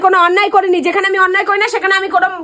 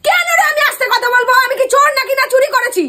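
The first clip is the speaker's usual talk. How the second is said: higher, raised voice, defiant; loud retort; 5 semitones higher than usual. Real, not acted. Mother answers son who says she talks loud, higher raised retort. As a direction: throw it back at him, raised and higher. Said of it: "তুমি এত জোরে জোরে কথা বলছো".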